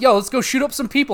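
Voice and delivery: high, playful imitation of the girlfriend; mock girlfriend voice. Gamer imitating the game girlfriend asking for violence, high mock voice. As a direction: voice her eager and high. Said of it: "She'd be like".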